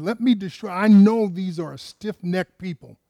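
God's wrath voiced with rising force. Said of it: "That's how angry God was".

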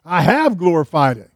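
lightly acted heavenly declaration, loud; a hint of God speaking from above. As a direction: declare it firmly, leaning on "have". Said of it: "the voice came from heaven".

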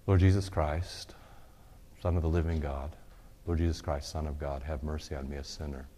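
murmured Jesus prayer; prayerful recitation. Shown as a demonstration. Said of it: "you got this morning the Jesus prayer".

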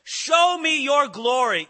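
earnest cry. Retold or imitated. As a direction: cry it out to God with all your longing. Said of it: "he cries out and he says".

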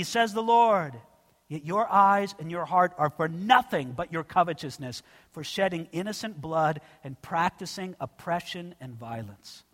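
rising, preaching read of scripture; declaiming the prophet's words from the pulpit. Acted. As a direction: proclaim the text to the congregation. Reads the Jeremiah passage aloud.

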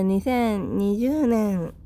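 cracking into falsetto on 二千二十年. Real, not acted. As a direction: voice flipping up on the year. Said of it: "声が裏返ってしまいましたが". (声が裏返る)

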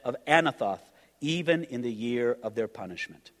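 solemn, measured Bible reading; scripture reading. Acted. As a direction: read the verses like a preacher at the pulpit. Reads scripture aloud.

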